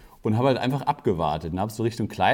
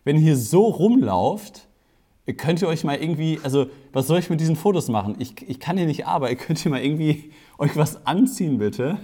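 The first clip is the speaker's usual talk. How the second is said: raised, higher voice re-enacting an exasperated call; retold loud appeal; 4 semitones higher, 3 dB louder than usual. Photographer calls to the half-dressed women, retold loud appeal. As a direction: call out to the room, a mock telling-off. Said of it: "so einmal so ganz laut so".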